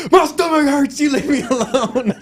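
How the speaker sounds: whiny. Retold or imitated. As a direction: whine like a sick kid, half laughing. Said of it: "And I was like".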